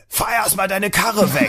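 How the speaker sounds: high, slow mock shout; imitated police yelling. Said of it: "schrie mich an". (nachgeahmtes Anschreien eines Polizisten)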